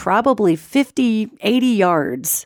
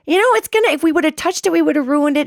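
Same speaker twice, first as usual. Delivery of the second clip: much higher, brightly upbeat reassurance; sister-in-law reassuring; 8 semitones higher, faster than usual. Retold or imitated. Sister-in-law lying that the goose will be fine, high cheery reassurance. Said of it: "And she goes".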